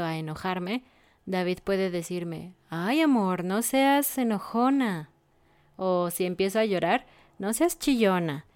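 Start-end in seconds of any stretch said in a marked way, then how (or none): 2.7-5.1 gentle teasing, slowed at the end; affectionate teasing. Retold or imitated. Husband soothing his upset wife, tender teasing. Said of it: "siempre depende del tono". 7.4-8.4 affectionate teasing. Retold or imitated. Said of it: "su tono no es grosero".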